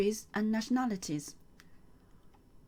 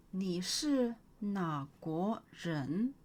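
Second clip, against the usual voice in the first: slow model question; much slower than usual. Shown as a demonstration. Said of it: "teacher models question slowly".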